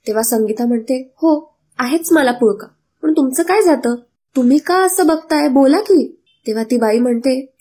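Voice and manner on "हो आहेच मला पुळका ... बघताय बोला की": raised, sharp comeback at the neighbour; indignant mother answering gossiping woman; angry retort. Acted. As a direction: snap back, offended. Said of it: "Sangeeta चिडते".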